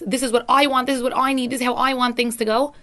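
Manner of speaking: self-focused, demanding tone; speaking from an I place; I-centred demands. Shown as a demonstration. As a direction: insist on what you want. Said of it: "an I place".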